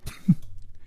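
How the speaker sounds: short, soft snort of laughter; acted quiet puff of a giggle; stifled giggle. A narrator's reading. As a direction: let a quick little laugh slip out. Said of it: "石秀云扑哧一笑".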